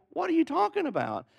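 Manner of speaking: high-pitched, incredulous question; bewildered retort. Retold or imitated. Retelling his bewildered reply.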